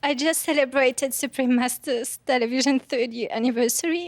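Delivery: ordinary delivery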